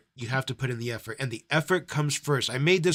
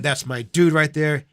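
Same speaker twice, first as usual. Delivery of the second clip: excited hype; 7 dB louder than usual. Real, not acted. Hyping a donor.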